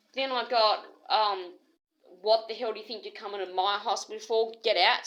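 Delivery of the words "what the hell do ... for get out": louder, angry "Get out" at the end; a mock hospital yell, building to louder; retold scream. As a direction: mimic being yelled out the door. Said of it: "screamed at".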